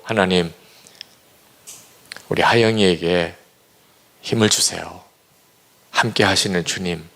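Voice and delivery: low, measured praying voice with pauses; retold prayer. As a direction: pray gently over your child, phrase by phrase. Retells his prayer over daughter.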